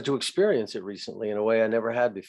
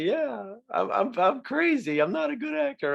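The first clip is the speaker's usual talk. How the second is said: chuckling at yourself; 11 semitones higher than usual. Retold or imitated. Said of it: "Why not just chuckle about that".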